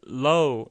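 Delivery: drawn-out low with a light L; "low" starting with a light, forward-tongue L. Shown as a demonstration. Teacher contrasts it with row, light L. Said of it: "이렇게 가볍습니다".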